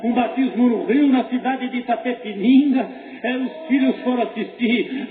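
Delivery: fervent preaching. Real, not acted. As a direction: preach with drawn-out emphatic phrases.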